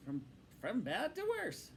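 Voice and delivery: grave. Acted. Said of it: "said the Rat gravely".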